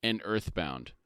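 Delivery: measured read-aloud summary; story narration. A narrator's reading. Co-host reads the book summary to his partner, story narration. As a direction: narrate the scene with deliberate phrasing.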